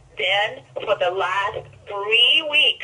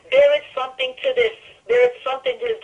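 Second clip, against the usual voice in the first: enthusiastic, almost screaming; 3 dB louder, faster than usual. Real, not acted. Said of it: "I must sound like I'm screaming".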